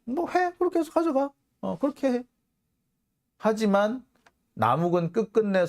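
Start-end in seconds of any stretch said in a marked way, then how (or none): 0.0-2.2 much higher, offhand mock voice; brushing off the complaint, high and careless; mock Kim Manbae reply. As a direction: toss it off in a high put-on voice. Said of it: "이에 대해서 김만배".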